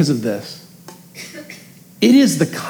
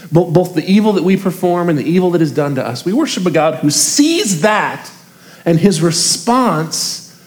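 ordinary delivery

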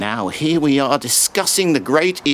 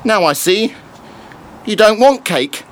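rising insistence; 8 semitones higher, 6 dB louder than usual. Acted. Man insisting on offering soup.

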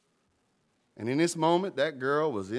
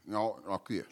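softer, hushed smoker's voice; imitating old smoker; 4 semitones lower, 7 dB quieter than usual. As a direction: lightly put on the old man's tone. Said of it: "he talked like this".

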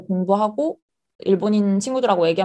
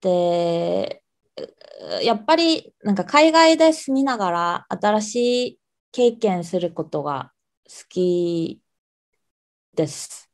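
slow, careful formal Japanese; polite Japanese self-introduction; much slower than usual. Shown as a demonstration. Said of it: "일본어로 간단하게 자기소개 부탁해도".

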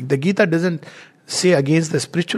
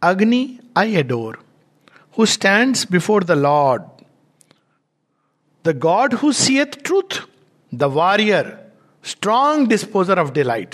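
reading a translated verse; 3 semitones higher than usual. Shown as a demonstration. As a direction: savour each line of the hymn. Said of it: "he translates it as".

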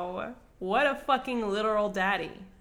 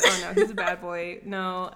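laughing mock swoon; 6 dB louder than usual.

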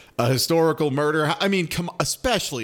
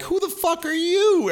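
snotty challenge. Retold or imitated. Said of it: "Madison kinda gives her".

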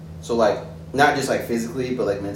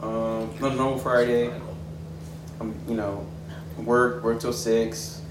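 leaning in to whisper; 5 dB quieter than usual. Real, not acted. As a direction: keep it down, speak softly. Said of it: "I was whispering".

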